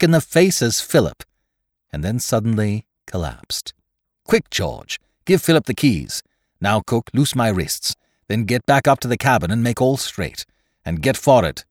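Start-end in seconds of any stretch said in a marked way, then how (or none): 4.2-11.6 quick, mildly urgent orders; swift commands. Acted. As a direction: rattle off the orders. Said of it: "commanded Ned swiftly".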